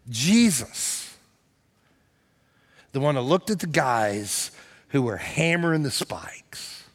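hushed sermon whisper. Acted. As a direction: drop to a whisper for the cross.

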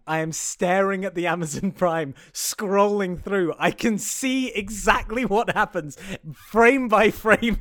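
slow, rising insistence, word by word; emphatic exasperation. Real, not acted. Exasperated rebuttal to co-host.

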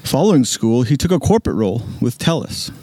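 measured radio announcer read. Pretend. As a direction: read the bio like a radio host. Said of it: "that radio voice is just ridiculous".

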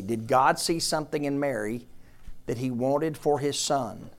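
deliberate, pressing question. Shown as a demonstration. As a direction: lean on each word. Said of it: "Listen to me".

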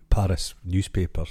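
normal talking voice

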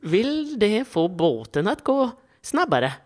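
slow, exaggerated mock Swedish; drawn-out sing-song Swedish. Asked to do it in Swedish, mock Swedish. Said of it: "Få høre på svenska".

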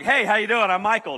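loud, friendly introduction; eager greeting. Retold or imitated. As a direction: hail a stranger brightly. Greets seatmate in story.

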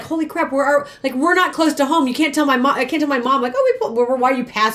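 high, rushed mock panic; panicked friend. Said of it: "And then she's like".

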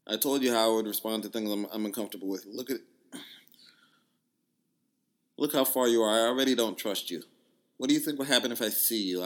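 reading her angry text in a mock Jamaican voice; Jamaican accent. Quoting her angry text in a mild Jamaican accent. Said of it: "I'm gonna try to do a Jamaican accent".

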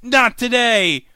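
high, loud, slow finishing line; action hero one-liner. Retold or imitated. Arthur finishes off the siren, a slow loud action one-liner. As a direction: deliver the kill line like a blockbuster.

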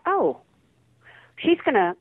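audition-style Southern California accent sample. Shown as a demonstration. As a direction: demo the Southern California voice she first read with. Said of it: "I went in with this, uh, this accent".

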